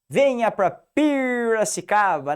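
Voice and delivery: hammed-up Piracicaba accent. Shown as a demonstration. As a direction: drawl "Venha pra Piracicaba" with the local R. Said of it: "Puxando o nosso R aí".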